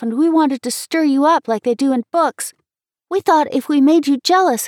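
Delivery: high, loud, urgent apology; pleading, near tears. A narrator's reading. Girl begging Dick's forgiveness, pleading and ready to cry. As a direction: beg forgiveness, pitch climbing at the end. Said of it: "I was just ready to cry".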